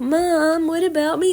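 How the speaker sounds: high, loud voice for a needy pup; attention-seeking dog. Acted. Owner voices the other dog wagging his tail, high eager plea. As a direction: beg loudly for your share of attention. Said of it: "wagging his tail like".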